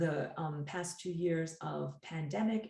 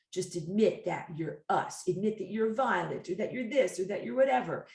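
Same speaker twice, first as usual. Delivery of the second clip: coercing occupier; 3 semitones higher, 5 dB louder than usual. Acted. Occupiers coerce their captive to admit it, insistent and mounting. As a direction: press harder with each demand.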